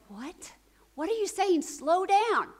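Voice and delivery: acting out overwhelmed disciples, rising high and loud; baffled "what?" building to a high, loud plea; bewildered protest. Overwhelmed disciples interrupt excited women.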